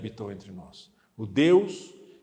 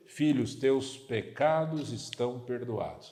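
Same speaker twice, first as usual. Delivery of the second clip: gentle forgiving words; 3 semitones lower, 3 dB quieter, slower than usual. Retold or imitated. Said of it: "Alternativa C".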